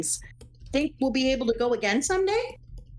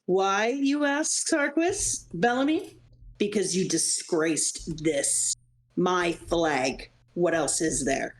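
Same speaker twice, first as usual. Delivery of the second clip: slow, low cold threat; menacing villain; 3 semitones lower, slower than usual. Acted. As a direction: savor each word like a boss punishing. Villain speech in game dialogue.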